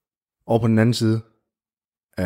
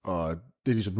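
ordinary delivery

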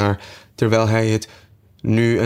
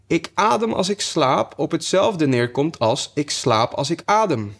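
lightly voiced sleep-talker, pitched up; a hint of dreamy, higher sleep talk; 7 semitones higher than usual. A narrator's reading. Dormouse joining in, as if talking in his sleep. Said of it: "die in zijn slaap leek te praten".

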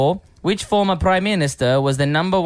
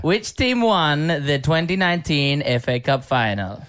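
put-on Italian accent; slower than usual. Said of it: "Is that, is that Italian?".

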